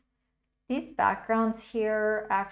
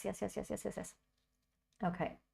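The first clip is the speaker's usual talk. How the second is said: quiet yeses; 8 dB quieter, faster than usual. Real, not acted. Pleased with her brushwork.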